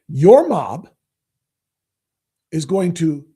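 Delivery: slow, sneering repeat of his words; mocking quote. Host mocking the reporter's phrase, slow and sneering. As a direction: drag the quote out with scorn. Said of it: "What does that mean, Don Lemon?".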